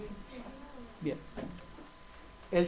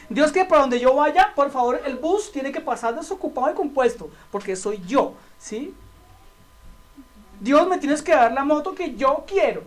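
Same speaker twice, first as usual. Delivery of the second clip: arrogant prayer; 2 semitones higher than usual. Retold or imitated. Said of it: "le oramos a Dios altaneramente".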